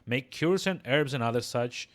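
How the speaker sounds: put-on brisk old-crone dialect; old midwife. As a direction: rattle off your trade as a village crone.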